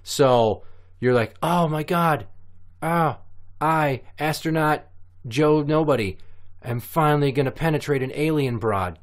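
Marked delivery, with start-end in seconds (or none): 1.4-9.0 higher-pitched, awestruck boast; elated astronaut. Acted. Astronaut finally meets an alien woman, elated. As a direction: play a thrilled space hero savouring the moment.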